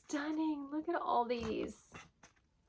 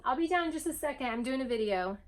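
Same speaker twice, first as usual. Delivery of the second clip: quick, higher call to someone downstairs; 5 semitones higher, 4 dB louder, faster than usual. Real, not acted. Vlogger calls to family off camera, quick raised call. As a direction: shout over the shoulder to the house.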